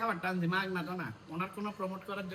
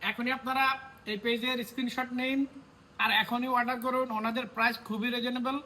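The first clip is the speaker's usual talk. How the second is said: infomercial; 2 semitones higher than usual. Acted. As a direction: push them to order right now. Promoting the page, order now.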